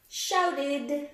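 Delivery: Shouted with a clear id at the end; sounded-out id ending. Shown as a demonstration. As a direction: stress the id in shouted. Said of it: "Which category does it belong in".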